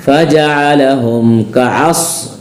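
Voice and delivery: फजअलहुम कअस chanted slowly, ending on a thick S; heavy Saad. Shown as a demonstration. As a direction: press a full S at the end of कअस. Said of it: "साद मोटा इसलिए अस कहेंगे". (कअस में साद मोटा)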